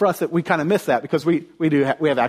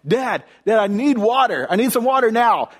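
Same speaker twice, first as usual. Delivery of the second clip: retold yelling; 7 semitones higher than usual. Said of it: "then I'm yelling".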